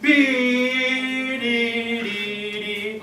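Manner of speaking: counted and sung slowly; slow, deliberate count and dee dee dee; slow tempo. Shown as a demonstration. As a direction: take One and two and B at a slow tempo. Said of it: "I'm gonna take it a little bit slow".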